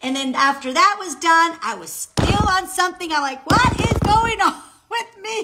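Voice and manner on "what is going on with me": high, loud question breaking into laughter; laughing exasperation. Retold or imitated. Asking herself after the workout fails, laughing exasperation. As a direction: cry it out, cracking up midway.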